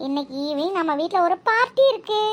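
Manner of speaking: high, rising announcement; excited reveal. Acted. Girl revealing tonight's party at home, excited announcement. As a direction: build up to the big news.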